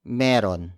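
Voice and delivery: "meron" said quickly and casually, two syllables. Shown as a demonstration. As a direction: clip "mayroon" down to a relaxed "meron". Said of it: "pronounce it even more casually".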